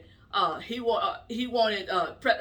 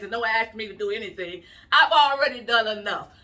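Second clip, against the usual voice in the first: mock Biden speech; 3 dB louder than usual. Voicing Biden mocking speech.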